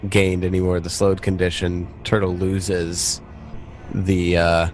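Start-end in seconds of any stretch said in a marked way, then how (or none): none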